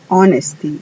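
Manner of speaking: honesty with silent H, "onesty"; English word honesty. Shown as a demonstration. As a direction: drop the H in honesty. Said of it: "la H ahí es muda". ("honesty" sin la H)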